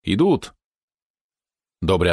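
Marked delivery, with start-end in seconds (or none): 0.0-0.5 higher, restrained triumphant call; jubilant cry. A narrator's reading. Boy alerting the scuffling crowd, mildly jubilant cry. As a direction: announce it with a touch of jubilation. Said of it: "ликующий голос крикнул".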